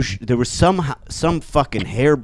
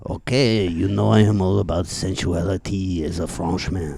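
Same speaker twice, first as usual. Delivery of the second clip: sensual French snake. Acted. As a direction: purr like a vain French snake.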